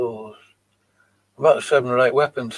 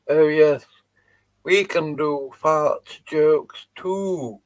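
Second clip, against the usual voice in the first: sarcastic; 3 semitones higher, slower than usual. Real, not acted. Mocking the rival channel.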